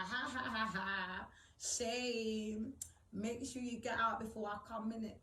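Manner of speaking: lightly imitated taunting laugh; a hint of sister's gloating cackle; mock mocking laugh. Sister mocking her on a WhatsApp call, taunting laugh. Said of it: "she's laughing at me on a WhatsApp call".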